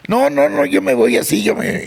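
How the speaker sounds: put-on high, pleading kid's protest; a stubborn little boy begging to keep his shoes; imitating his child self. Boy refusing to change shoes, voiced high.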